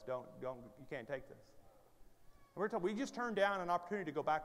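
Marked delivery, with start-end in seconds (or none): 0.1-1.4 low, soft voice; hushed warning. Acted. The Lord speaking to the couple next morning, hushed warning. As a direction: say it gently under the laughter's wake. Retells the Lord's quiet word.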